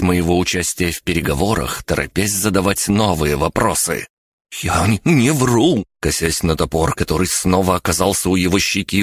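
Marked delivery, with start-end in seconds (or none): 4.6-5.8 high, halting, stammered protest; blurted. A narrator's reading. Spy eyeing the axe at his cheek, blurting. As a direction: protest anxiously, stumbling on the denial. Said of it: "выпалил соглядатай".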